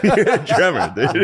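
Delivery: laughing it out, high; repeating the joke through laughter. Real, not acted. Laughing at a friend, calling him a Tremor.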